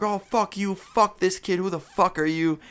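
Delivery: high-pitched imitation of an angry rant; mock yelling. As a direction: mimic a furious friend without real volume. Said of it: "my friend starts yelling".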